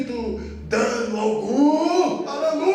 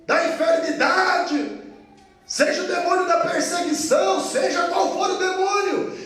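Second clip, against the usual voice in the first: shouted, higher preaching with a rising build; fiery preaching; 3 semitones higher than usual. Acted. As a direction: preach it to the congregation. Preaching at full force.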